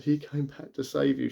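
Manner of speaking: mild retold tearfulness, drawn out slowly; retold crying. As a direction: echo a crying mother, understated. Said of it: "She's crying her eyes out".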